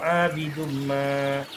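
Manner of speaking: slow chanted "abidum ma"; resumed recitation. Shown as a demonstration. Teacher resumes after the stop, slow "abidum ma". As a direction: begin "abidum ma" afresh with long first a.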